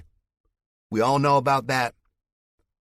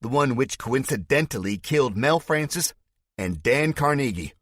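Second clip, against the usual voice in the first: Spike's fake Southern accent; 6 semitones higher, 5 dB louder than usual. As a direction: denounce him to the crowd in a put-on Southern voice. Villain accusing hero before crowd.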